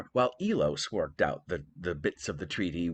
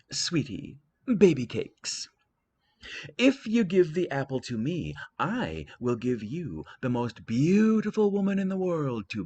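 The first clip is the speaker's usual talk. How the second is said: Aphrodite, like totally; 3 semitones higher than usual. Acted. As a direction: purr a sultry ditzy bribe. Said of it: "said Aphrodite, like, totally".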